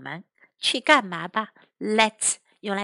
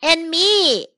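put-on lightly called-out child's line; mild storybook shout, a little higher; Andy; 7 semitones higher, 6 dB louder than usual. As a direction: pipe up eagerly, not at full volume. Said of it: "Andy shouted".

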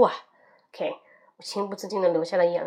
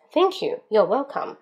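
other speaker's line. Acted. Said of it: "mini dialogue, other role".

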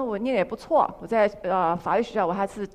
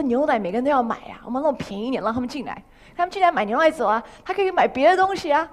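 eager persuasion; 3 semitones higher, 3 dB louder than usual. Retold or imitated. Persuading parents about cheap milk.

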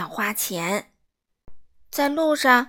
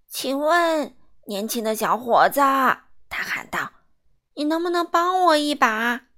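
put-on old man calling; 3 semitones higher, 4 dB louder than usual.

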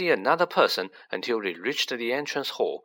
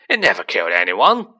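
louder, desperate denial; loud protest; 3 semitones lower, 8 dB louder than usual. A narrator's reading. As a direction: shout out in defence. Hagrid protesting.

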